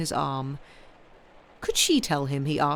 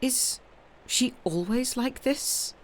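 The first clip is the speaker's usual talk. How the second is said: higher, slow, teasing Italian beauty; arch signora; 7 semitones higher, 4 dB quieter, slower than usual. A narrator's reading. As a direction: drawl the question with sly amusement. Signora mocking Mrs Proudie.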